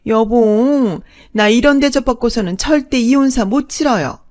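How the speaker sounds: high, loud indignant screech; outraged shriek. Acted. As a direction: shriek at the insolent bride and demand to call it off.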